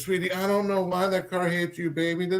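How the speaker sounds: softly spoken, gentle reassurance, lightly acted; consoling father. Father to his upset daughter, mildly consoling. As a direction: soothe a child, retelling it. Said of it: "like, consoling his daughter".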